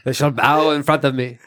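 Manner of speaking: booming conqueror line; dark lord. Acted. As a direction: proclaim it like a ruthless warlord. Joins the dark lord quote.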